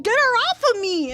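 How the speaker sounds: mock panicked shout; retold shout for help. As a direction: yell it to the grown-up. Calling to grandmother for help.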